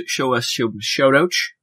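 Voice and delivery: slurred "sh" sounds, Connery-like; accidental Sean Connery. Real, not acted. Host stumbling over shout-outs, accidental Sean Connery. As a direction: trip into a slushy Connery "sh". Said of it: "I turned to Sean Connery there".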